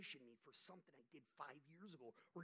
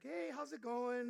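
high, bright mock-cheery wife, slow; imitating his wife's sunny phone greeting; cheerful wife; 8 semitones higher, 11 dB louder, slower than usual. Husband voicing his wife's cheery phone hello, higher and louder. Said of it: "Why are you so cheerful?".

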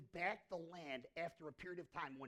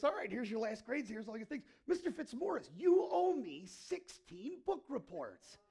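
teacher's verdict; 4 semitones higher, 8 dB louder than usual. Retold or imitated. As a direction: lay down the debt to the kid. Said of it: "she goes like this".

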